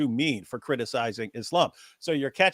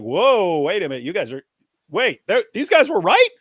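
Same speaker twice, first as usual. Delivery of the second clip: high-pitched, louder incredulous outburst; mock shocked disbelief; 9 semitones higher, 5 dB louder than usual. Everyone reacting to the Dawa guys' admission, mock astonished. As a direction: imitate a stunned crowd, voice leaping way up.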